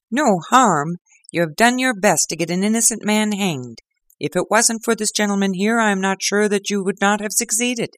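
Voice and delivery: high, loud furious inspector; angry detective berating a prisoner. Acted. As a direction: tear into the culprit, outraged. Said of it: "furious red face of the angry detective".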